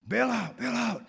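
high yelled bail out, bail out; high panicked mock yell; retold screaming. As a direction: shout it like a panicked skipper. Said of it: "He was screaming".

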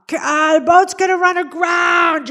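high, slow shout across the water; dad yelling over the waves; father shouting a warning to his daughter in the sea; calling out. Retold or imitated. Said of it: "And he calls out".

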